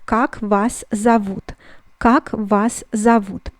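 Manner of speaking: slow model reading of "Как вас зовут", word by word; "Как вас зовут" spaced out, falling at the end; pronunciation demo. Shown as a demonstration. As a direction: say "Как вас зовут" slowly and evenly for learners. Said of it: "this question will sound like".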